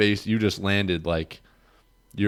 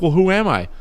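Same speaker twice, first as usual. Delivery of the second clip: loud pressing question; 10 semitones higher, 6 dB louder than usual. Retold or imitated. Pressing dazed friend.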